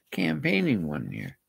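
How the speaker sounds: secretive whisper. Real, not acted. Hiding who told him, whispered. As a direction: drop to a whisper to protect her.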